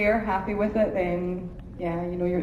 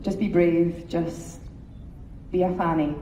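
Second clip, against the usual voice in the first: Scottish accent; 4 semitones lower, 4 dB quieter, slower than usual. Shown as a demonstration. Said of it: "That's my best Scottish phrase".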